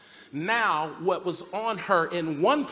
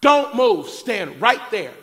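loud high bark fading to a firm slow order; sharp shout easing down; stern command; 4 semitones higher, 10 dB louder, slower than usual. Retold or imitated. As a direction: freeze a toddler mid-step. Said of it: "I said".

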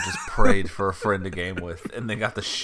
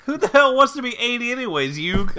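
squeaky callous sidekick; 12 semitones higher, 9 dB louder than usual. Retold or imitated. Friend joking as a callous character, squeaky high voice. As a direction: chirp it out like a heartless cartoon pal.

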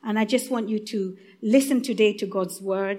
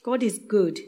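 ordinary delivery

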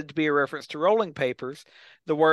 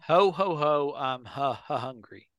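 cartoon ad voice; slower than usual. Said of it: "the Fruity Pebbles ad".

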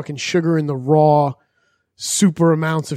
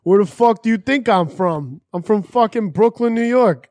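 mock-indignant Brooklyn accent; 5 semitones higher than usual. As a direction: lay on the Brooklyn, pitch climbing. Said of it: "Your Brooklyn accent came flying out".

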